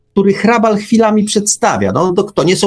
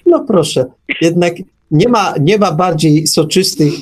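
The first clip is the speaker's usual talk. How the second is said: usual speaking voice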